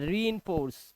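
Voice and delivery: "रीइंफोर्स" with a long ee after the r; long "ee" sound. Shown as a demonstration. Teacher models the word for learners, long ee in "रीइंफोर्स". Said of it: "यहाँ पे बड़ी की आवाज है".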